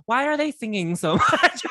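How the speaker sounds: laughing through a mock complaint. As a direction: imitate a whiny listener, cracking up. Mocks complaining listeners, breaks into laughing.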